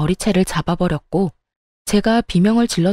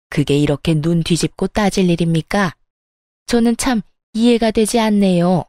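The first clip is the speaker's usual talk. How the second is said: sarcastic sneer. Acted. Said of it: "얄밉게도 비아냥거리며".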